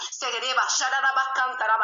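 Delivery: rhythmic tongue syllables, rising in loudness; speaking in tongues. Retold or imitated. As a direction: pour out prayer syllables with fervour. Speaking in tongues during a prayer. (hablando en lenguas, con fervor creciente)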